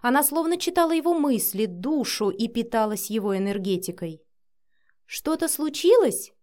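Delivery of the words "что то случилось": slow, sweet, innocent; с улыбкой, слащаво; smiling question. A narrator's reading. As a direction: ask it with a smile, too sweetly. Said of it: "с улыбкой спросила Синди".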